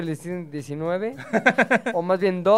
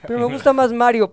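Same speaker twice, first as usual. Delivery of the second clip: put-on a child's higher, louder protest; lightly voiced child, pitched up; 5 semitones higher, 7 dB louder than usual. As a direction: object like a kid pleading with dad. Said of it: "te estaba pidiendo".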